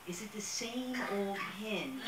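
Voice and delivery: slow punchline, laughter breaking in; laughing. Retold or imitated. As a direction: hold back a laugh on the punchline.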